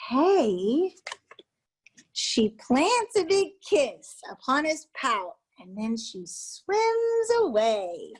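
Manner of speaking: lively storytime voice with sing-song refrains; reading a picture book aloud. Acted. Reading a children's book to a room of educators, animated storytime voice. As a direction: read it like a teacher at circle time, playing each sea creature.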